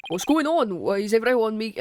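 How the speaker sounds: lightly voiced Scottish witness; a slip into a Scottish accent for the character; accidental Scottish accent. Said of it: "I don't know why I went Scottish there".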